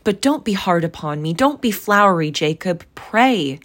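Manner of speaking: put-on fearful, loud old man's plea; frightened pleading. A narrator's reading. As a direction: beg the ghost not to be harsh. Scrooge pleads with ghost.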